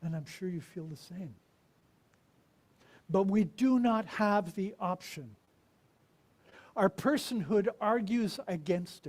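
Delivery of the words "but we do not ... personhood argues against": slow, firm, louder; emphatic preaching. Real, not acted. Preacher insisting to the congregation, firm and louder. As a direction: drive the point home. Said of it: "emphatic preaching".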